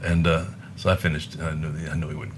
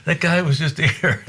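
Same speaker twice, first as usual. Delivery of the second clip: high, loud mock of an old bluesman chuckling over a guest; hammed-up old pianist tickled by it; old piano man's amused voice; 11 semitones higher, 5 dB louder, slower than usual. Red's voice in the story.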